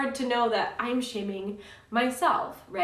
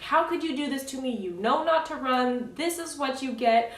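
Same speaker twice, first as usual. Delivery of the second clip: mild mock yell, pitched higher; retold yelling; 4 semitones higher, 4 dB louder than usual. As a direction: scold in exasperation, imitating your own outburst. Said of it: "and I yelled at him".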